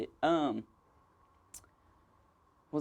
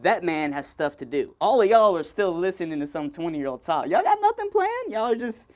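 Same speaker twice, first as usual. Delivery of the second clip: mock respectful heckling; 4 dB louder than usual. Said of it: "and I was like".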